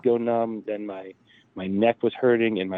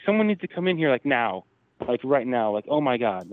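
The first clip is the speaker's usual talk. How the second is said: retold panicked yelling; 3 semitones higher than usual. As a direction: act out someone urgently calling for help, without full volume. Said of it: "she starts yelling".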